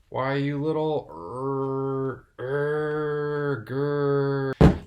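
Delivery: strangled angry sputter ending in a growl; cartoon dad rage. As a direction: choke on fury, then growl. Skit father angry at son.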